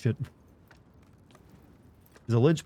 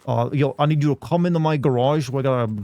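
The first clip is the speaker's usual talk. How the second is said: lightly voiced old senator, louder; a hint of a stumping politician; Mister Dink voice; 3 semitones higher, 3 dB louder than usual. Shown as a demonstration. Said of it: "So if I do it like that".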